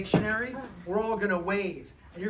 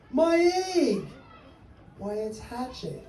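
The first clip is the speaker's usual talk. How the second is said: excited; 4 semitones higher, 4 dB louder than usual. Acted. Horton's excited cry continues.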